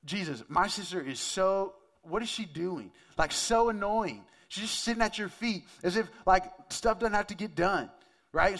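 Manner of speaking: mock-polite sisterly exasperation; annoyed complaint. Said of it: "her most polite way of saying".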